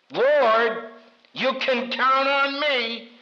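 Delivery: slow, proud promise; a slow confident pledge; boastful Peter. Retold or imitated. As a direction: Peter vowing loyalty, drawn out. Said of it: "That's what Peter said".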